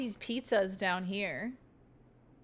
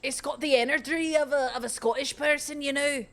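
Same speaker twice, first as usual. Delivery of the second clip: mock quote voice; 5 semitones higher, 5 dB louder than usual. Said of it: "And what did she mean by that?".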